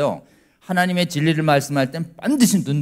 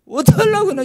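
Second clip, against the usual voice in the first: scolding parent; 6 dB louder than usual. Retold or imitated.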